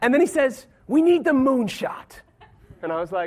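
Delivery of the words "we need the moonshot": deliberate, slow, put-on American accent. Retelling what an American man told him about the moonshot, in an American accent. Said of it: "that's my American accent".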